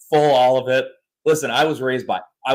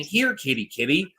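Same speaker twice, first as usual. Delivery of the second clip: sweet cat call; 3 semitones higher, 5 dB quieter than usual. Retold or imitated. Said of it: "he's saying".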